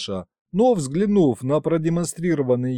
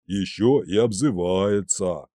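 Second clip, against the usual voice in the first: offended grumble; 5 semitones lower, slower than usual. A narrator's reading. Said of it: "покачал головой Дед Мороз".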